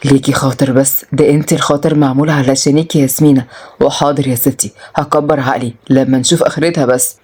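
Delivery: lightly voiced man, low-pitched; low, mildly affectionate male character; indulgent young man. Voices Murad indulging Yasmin.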